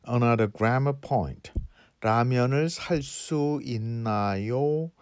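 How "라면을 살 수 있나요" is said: 라면을 살 수 있나요 climbing on the final 요; rising intonation. Shown as a demonstration. Teacher showing learners an example question, rising intonation on 있나요. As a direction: ask 라면을 살 수 있나요 with a lifted ending. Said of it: "in a rising intonation".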